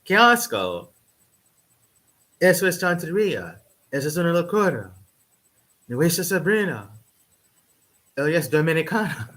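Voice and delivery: mock disapproving family elder; mocking scandalized elders. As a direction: rant like a shocked older relative. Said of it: "the older people in my family are going".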